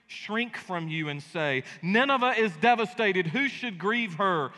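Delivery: building, slowing through the battle images; solemn pulpit reading of doom; dramatic scripture reading. Acted. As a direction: read the prophecy like a war unfolding. Reads Nahum's prophecy aloud.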